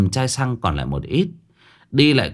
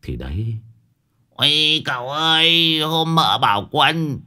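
high stammering wail over Gucci sandals; shocked old man wail; 5 semitones higher than usual. Acted. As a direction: gasp in horror, stumble over words. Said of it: "Đồng già vừa nghe vậy thì rú lên". (ông Đồng rú lên kinh ngạc, lắp bắp giọng cao)

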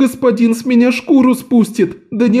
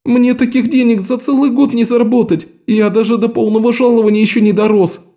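much higher, tearful whimper; whining boy; 10 semitones higher than usual. A narrator's reading. Lok tearfully explains the cake's price to the men. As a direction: plead pitifully.

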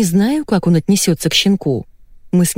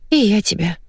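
hesitant reply, stress on и, falling; 4 semitones higher than usual. Acted. Wife answering husband after a pause, hesitant falling. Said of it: "после короткой паузы ответила Наташа".

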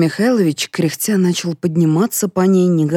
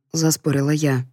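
ordinary delivery, nothing marked

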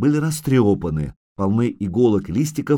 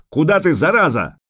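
higher, louder exasperated call; shouting after her; 6 semitones higher, 5 dB louder than usual. A narrator's reading. Witcher calls after fleeing girl, shouting crossly. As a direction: yell after the runaway. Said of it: "крикнул Геральт".

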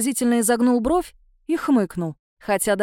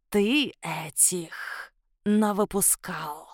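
slow, low, muffled monster grumble; low creature voice; 4 semitones lower, 6 dB quieter, much slower than usual. Acted. Shadow creature blaming Ef, slow low grumble. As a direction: drag it out like a sulky shadow beast.

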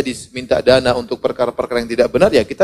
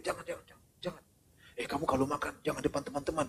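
hushed whisper; 21 dB quieter, faster than usual. Retold or imitated. Stingy parent hushing child.

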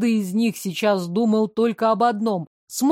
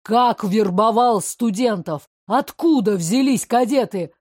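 pressing, loud questions; angry interrogation; 3 dB louder than usual. Acted. Prince interrogating the adjutant, angry demand. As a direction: hammer him with questions.

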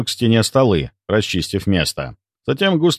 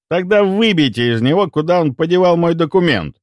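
higher, forceful angry order; furious outburst; 7 semitones higher than usual. A narrator's reading. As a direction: explode at the detective. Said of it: "взорвался Лавров".

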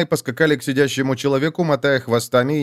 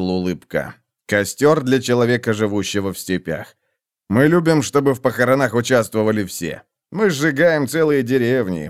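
gruff soldier. Acted. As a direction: answer dryly like a tough soldier. Corik answers. (грубоватый голос солдата)

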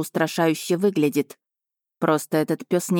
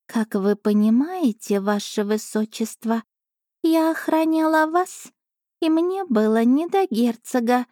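high, slow affronted cat voice; a cat playing wounded pride; offended cat familiar; 6 semitones higher than usual. A narrator's reading. Cat familiar offended at princess, high slow voice. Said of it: "оскорблённо заявила Аша".

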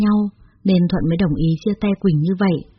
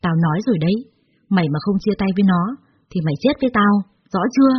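threatening. Acted. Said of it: "trợn trừng mắt nhìn nó đe dọa".

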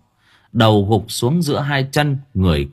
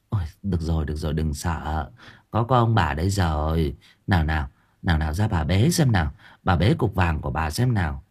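grandma soothing. Acted. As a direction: hush the frightened grandchild. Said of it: "Bà Cẩm dỗ dành".

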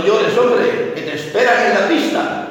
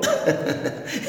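put-on childish giggle; 9 dB quieter than usual. Girl laughs at clown's name.

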